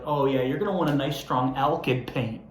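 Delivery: imitating a know-it-all store clerk, casual; knowing employee. Store employee brushing off a clueless customer, lightly mocked. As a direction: lightly voice the expert clerk tossing off advice. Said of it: "And they're like".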